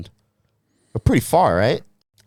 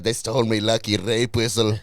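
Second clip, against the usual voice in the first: put-on Irish accent. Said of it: "this Irish is just".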